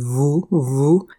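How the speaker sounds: "woe" with a lengthened oe vowel; drawn-out woe. Shown as a demonstration. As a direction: say "woe" as a resonant sound, vowel held. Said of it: "de klinker die we daar gebruiken".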